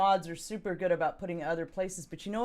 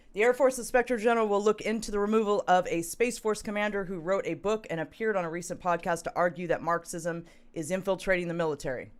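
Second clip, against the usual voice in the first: measured article reading; steady, formal report delivery; news read. Real, not acted. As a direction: read the news story aloud evenly. Reads news article aloud.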